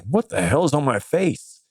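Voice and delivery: panicked mock crying. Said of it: "I was, like, crying".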